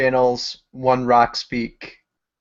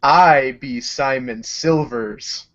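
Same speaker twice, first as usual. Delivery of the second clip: threatening; much slower than usual. Acted. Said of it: "And I say it threateningly".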